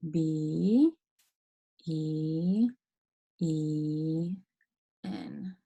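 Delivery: each letter drawn out, long pauses between; spelling to trace. Shown as a demonstration. Teacher spelling for children to trace along, slow drawn-out letters. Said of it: "trace it along with me".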